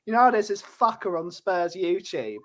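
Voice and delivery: put-on light cockney accent; a hint of cockney, cheeky; mild cockney accent, geezer style. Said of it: "Haaland's gone all cockney".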